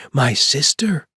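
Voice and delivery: put-on high, loud call from a little girl; child's shout. A narrator's reading. Rosie shouting out her idea to Chuck, loud. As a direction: blurt it out in delight. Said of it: "she shouted".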